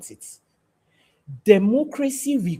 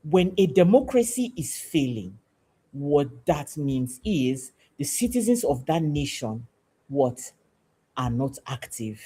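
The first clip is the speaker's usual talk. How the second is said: slower, each phrase set apart; said again slowly; 2 semitones lower than usual. Shown as a demonstration. Civic teacher repeating the point to citizens, slowly. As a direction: let every word land, unhurried. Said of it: "I'll say that again slowly".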